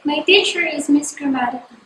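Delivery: "My teacher is Miss Grammatical" falling steadily after "teacher"; statement, voice dropping on "Grammatical"; falling intonation. Shown as a demonstration. Teacher giving another example of a statement, "Grammatical" falling at the end. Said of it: "falling intonation is used in statement".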